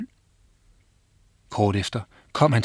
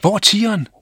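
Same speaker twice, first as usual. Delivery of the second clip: high, loud, stress on "tigeren"; urgent question landing on "tigeren"; alarmed; 10 semitones higher, 6 dB louder, faster than usual. Acted. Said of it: "De så bange ud".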